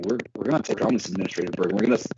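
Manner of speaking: choppy, breaking-up phone audio; glitchy robotic call. Real, not acted. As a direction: voice cutting in and out over a bad line. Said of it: "Your audio is breaking up on us here".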